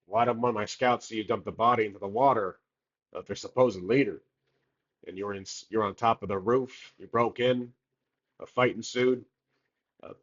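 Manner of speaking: lightly voiced southern-accented captain; a hint of southern accent, interrogating a suspect. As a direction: play a questioning captain in a mild southern accent. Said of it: "like, a southern accent".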